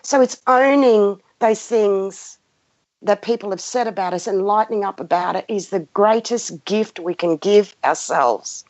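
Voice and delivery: normal talking voice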